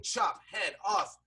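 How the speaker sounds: slow, separated words; deliberate chop. Retold or imitated. Critic replaying the beheading beats, slow and emphatic. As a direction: leave a gap after each word. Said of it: "They should have been like".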